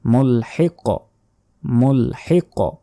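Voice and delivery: মুলহিক with echoing final q; qalqalah bounce. Shown as a demonstration. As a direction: push off the last sound of মুলহিক. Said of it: "ধাক্কা দিয়ে পড়তে হয়".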